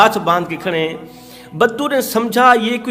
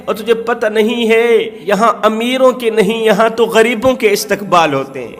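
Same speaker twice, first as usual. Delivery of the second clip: fervent preaching; 3 semitones higher than usual. Acted. Preacher voicing Umar to the humbled bedouin, impassioned.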